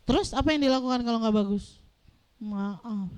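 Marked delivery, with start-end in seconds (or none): 2.4-3.1 soft, small sorry; a scolded child whispering sorry; meek child apology. Retold or imitated.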